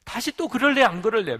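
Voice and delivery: loud, high-pitched telling-off; acted scolding father. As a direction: scold a lost child in exasperation. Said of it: "자기가 막 야단을 치더래요".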